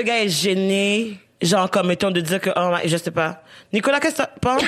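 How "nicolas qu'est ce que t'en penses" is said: calling out. Real, not acted. Calling out to the host.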